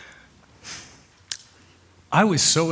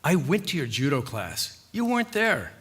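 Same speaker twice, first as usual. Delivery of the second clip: quiet confrontation; 5 dB quieter than usual. Acted. Husband confronting his wife about judo class, quietly accusing. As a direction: confront softly, then lift the accusation. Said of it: "and then told her".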